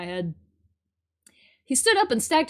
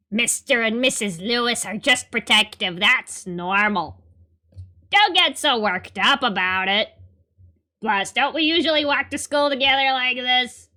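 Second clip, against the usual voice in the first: Julio voice; 3 dB louder than usual. Acted. Voicing Julio the new character.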